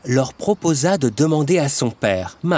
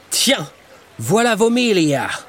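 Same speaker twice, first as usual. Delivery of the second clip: sarcastic bully; 4 semitones higher than usual. Acted. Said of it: "dit-il".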